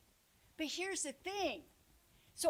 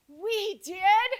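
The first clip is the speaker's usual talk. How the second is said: higher and louder, amazed; surprised question; 6 semitones higher, 11 dB louder than usual. Retold or imitated. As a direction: toss it back in disbelief. Teachers answer in surprised unison.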